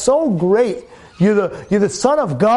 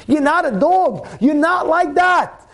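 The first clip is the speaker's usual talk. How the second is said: slow, deliberate phrases; slow, weighty sermon point; slow emphatic preaching; slower than usual. Acted. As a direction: spell it out slowly to the crowd.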